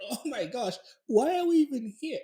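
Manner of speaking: mock-panicked questioning of yourself; retold alarm. Retold panicked thought after laughing.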